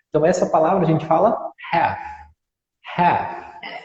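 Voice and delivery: "half" with no L, said like "háf"; "half" with a silent L. Shown as a demonstration. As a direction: drop the L in "half". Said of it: "o L é mudo".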